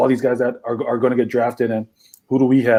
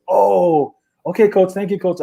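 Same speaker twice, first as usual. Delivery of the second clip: dazed thanks; 7 semitones higher than usual. Retold or imitated. Retelling polite phone reply.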